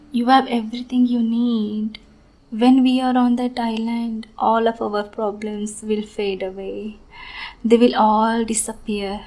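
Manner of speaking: sweet on the surface, unhinged underneath; obsessive sweet lover. Acted. Yandere lover's sweet monologue.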